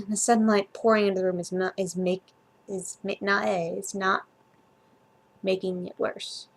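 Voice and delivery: tripping over the words; stumbling, restarting mid-phrase; stuttering. Real, not acted. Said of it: "Sorry, I'm stuttering over words".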